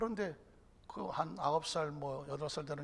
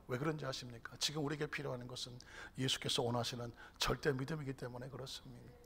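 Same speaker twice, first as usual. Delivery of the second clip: ordinary delivery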